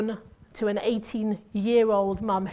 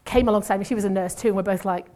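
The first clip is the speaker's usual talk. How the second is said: ordinary delivery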